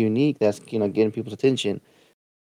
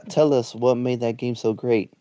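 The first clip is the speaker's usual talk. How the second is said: sarcastic. Acted.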